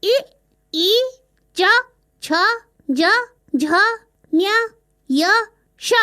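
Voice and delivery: इ, ई, च, छ, ज, झ, ञ, य, श one by one with pauses between; reciting letters back. Shown as a demonstration. Child repeating the palatal letters to the parrot teacher. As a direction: echo each palatal letter carefully. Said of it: "तालु का स्पर्श करती है".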